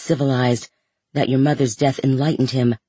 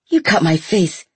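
screaming; 5 semitones higher, 3 dB louder than usual. A narrator's reading. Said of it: "He screamed".

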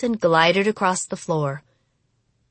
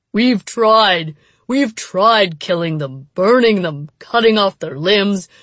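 desperate; 4 dB louder than usual. Acted. Headman desperately explains.

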